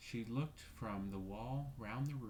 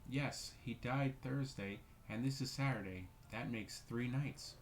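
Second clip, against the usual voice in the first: rigidly; 3 semitones higher than usual. Acted. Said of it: "said Caroline rigidly".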